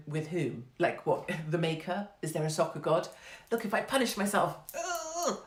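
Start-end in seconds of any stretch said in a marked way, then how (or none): 3.5-4.6 higher-pitched, hammed-up deal-making; mock bargaining. Fan bargaining with a soccer god for a win, mock-earnest. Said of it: "these sort of bargaining things". 4.7-5.4 high, hammed-up "ugh"; a put-on grunt of self-punishment; mock straining groan. Runner punishing herself so the team wins, mock groan.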